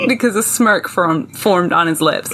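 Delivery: put-on American reading voice; resume the American accent, holding off laughter. Resuming the novel excerpt after cracking up, American accent. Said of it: "pull in my best American accent".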